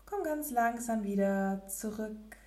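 ordinary talk

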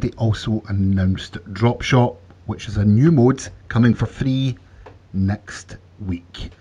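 slow, measured podcast news read. Real, not acted. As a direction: read the item out deliberately to listeners. Reads out a news item.

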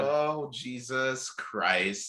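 slow, drawn-out groan of words; stunned, stretched exclamation; appalled disbelief. Retold or imitated. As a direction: drag out each word, aghast. Retells appalled reaction.

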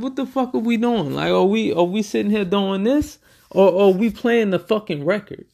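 high, exasperated mock outburst; exasperated rapper. Imitating a rapper yelling at his band in disbelief. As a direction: imitate the boss blowing up at the band.

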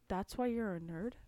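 voiceless teasing question; whispering. Real, not acted. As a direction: whisper the jab. Unvoiced whisper.

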